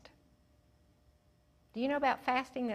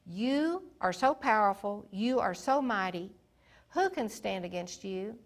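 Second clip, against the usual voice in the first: fervent prayer; 4 dB louder than usual. Acted. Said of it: "But he said".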